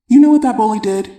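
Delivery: put-on a boy boiling over about a bully; upset son venting.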